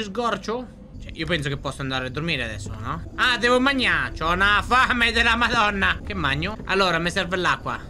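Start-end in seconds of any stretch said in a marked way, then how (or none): 3.2-6.0 high, raised voice; hungry exclamation. Real, not acted. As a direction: announce a huge hunger with gusto. Exclaims sudden hunger in game.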